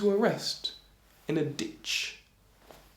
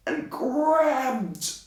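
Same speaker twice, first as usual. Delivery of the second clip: high, stretched-out effort; drawn-out word; 10 semitones higher than usual. A narrator's reading. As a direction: stretch the verb as if reaching far up. Storyteller acts out reaching up.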